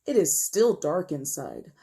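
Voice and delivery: put-on measured, expressive story narration for children; read-aloud storytelling. A narrator's reading. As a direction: read it to young listeners, stretching key words. Reads picture book aloud.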